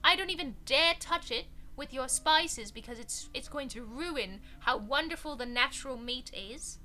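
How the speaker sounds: lightly put-on posh English accent; a hint of posh English snobbery; mock posh English. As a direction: sniff at the spices like a snooty Brit. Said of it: "the very posh English accent".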